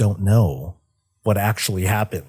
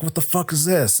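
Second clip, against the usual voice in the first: confused Illidan; 7 semitones higher than usual. Retold or imitated. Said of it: "Illidan's like".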